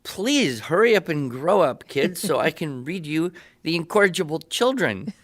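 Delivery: teasing appeal to the grandkids; mock plea. Pleading to her grandchildren.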